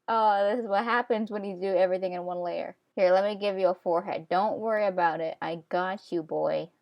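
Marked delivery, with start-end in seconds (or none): 2.9-6.7 reassuring. Real, not acted. Comforting the drawn character.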